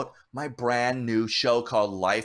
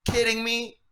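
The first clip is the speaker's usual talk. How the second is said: impersonating Eddie's surprise; 12 semitones higher than usual. Retold or imitated. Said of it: "And he goes".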